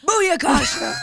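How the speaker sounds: shouted catchphrase; hype shout. Pretend. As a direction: yell it like Ali G.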